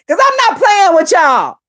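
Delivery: talking around a cigarette; words past a lit cigarette; cigarette in mouth. Real, not acted. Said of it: "let me light my cigarette".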